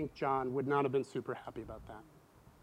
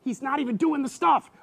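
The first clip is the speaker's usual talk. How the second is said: higher, louder, anguished questioning; doubting John; 8 semitones higher, 6 dB louder than usual. Retold or imitated. John in prison doubting Jesus, anguished and loud. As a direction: voice a despairing prisoner asking what it was all for. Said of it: "he's gotta be thinking".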